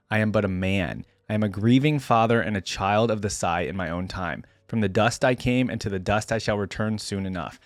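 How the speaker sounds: measured, solemn first-person narration; dramatic story reading. A narrator's reading. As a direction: read it like a weary lone warrior's grave account. Reads first-person story aloud.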